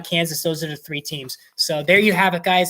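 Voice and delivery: breathless after a long rant; out of breath. Real, not acted. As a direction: talk while short of breath. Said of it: "I'm out of breath".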